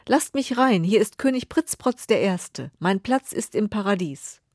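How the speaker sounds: the king bangs on heaven's gate and demands entry; pompous king demanding. Acted. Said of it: "steht er vor dem Tor ... und klopft an".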